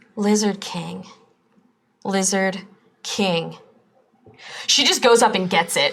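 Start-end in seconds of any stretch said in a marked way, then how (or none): 0.1-3.5 sudden dawning realization, said twice. Voicing Cupid calling out on a sudden realization: Cupid voice. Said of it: "and she goes".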